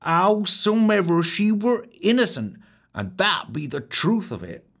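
mild mournful lilt in a high rustic maid's voice; the wench grieving the innocent chambermaid; a touch of sorrow, high and rustic. A narrator's reading. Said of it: "before continuing mournfully".

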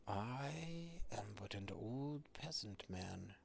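lightly voiced old man, slow at first; slow, humble offer of help; a hint of an old peasant.

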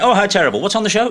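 brisk offhand sympathy; mimicking Aspel. Mimicking the host's reaction to a death, offhand. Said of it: "And he did it like".

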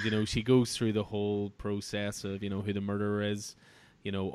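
usual speaking voice

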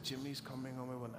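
softly voiced, hushed reassurance; retold whisper. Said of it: "she whispered into my grandma's ear".

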